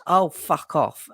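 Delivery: slow mock toddler oh fuck off; child imitating dad. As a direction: copy dad like a little boy. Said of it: "he goes".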